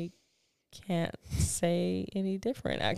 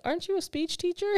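mock incredulous; 12 semitones higher, faster than usual. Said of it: "and I'm like".

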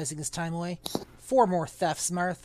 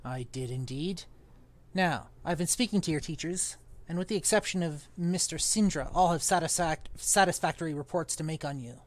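put-on pompous old magician; 5 dB louder than usual. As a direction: sniff at it like a stuffy old master. Reads Underwood's lines in character.

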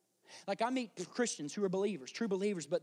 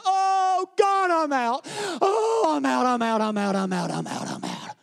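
high, loud cry sliding steadily down; hammed-up collapse into being out; mock despairing wail; 5 semitones higher, 10 dB louder, slower than usual. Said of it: "You meet Christians like this".

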